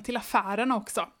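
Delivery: even, lively read-aloud pace; storybook reading voice; story narration. A narrator's reading. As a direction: read the children's book to the listener. Reads the book aloud.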